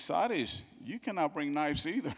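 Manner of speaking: aunt scolding back. Retold or imitated. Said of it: "her aunt says".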